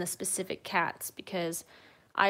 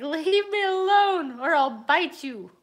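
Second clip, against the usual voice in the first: 1 voicing the grumpy cat; 8 semitones higher, 8 dB louder than usual. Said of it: "It's like".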